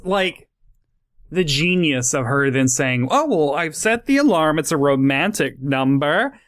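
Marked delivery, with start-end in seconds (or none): 3.1-6.4 mildly gushing imitation of a happy woman. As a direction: retell her line with lilting, happy emphasis. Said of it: "she's so happy".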